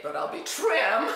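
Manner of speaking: chuckling at her own joke, telling friends about her diet; laughing. Retold or imitated. Giggling through it.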